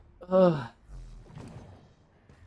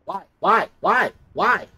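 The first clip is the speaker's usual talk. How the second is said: loud, higher repeated whys; exasperated cries; 3 semitones higher, 6 dB louder, slower than usual. Real, not acted. Player yelling at the game, loud exasperated cries. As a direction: cry out at the game each time.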